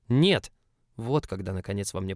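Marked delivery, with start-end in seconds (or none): 0.1-0.5 shouted no. Acted. Narrator refuses loudly.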